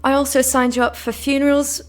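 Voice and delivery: lightly attempted British accent; bad British accent. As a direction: read it in a clumsy mock British accent. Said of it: "British accent impersonation. ... That was horrible".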